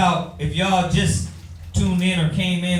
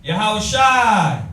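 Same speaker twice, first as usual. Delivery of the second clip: mock pious answer; 3 dB louder, much slower than usual.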